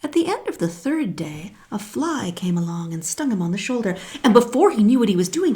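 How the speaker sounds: plain reading voice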